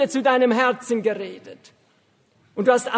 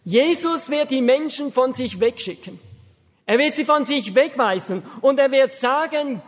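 ordinary talk, nothing marked

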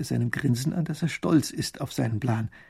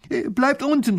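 high, louder call to the guards; 13 semitones higher, 6 dB louder than usual. Acted. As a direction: call down to the soldiers. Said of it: "ruft Professor Pfiffikus".

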